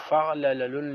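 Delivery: فعللن read with an "a" on the second lam, fa'-la-la-lun; misprinted pronunciation. Shown as a demonstration. Teacher reading out the copyist's error, فعللن mispronounced as fa'lalalun. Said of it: "یہ غلط ہے، یہ کاتب کی غلطی ہے".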